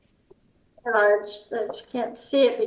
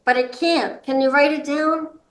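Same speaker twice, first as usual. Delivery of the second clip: enthusiastic request; 3 semitones higher than usual. Shown as a demonstration. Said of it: "Be enthusiastic".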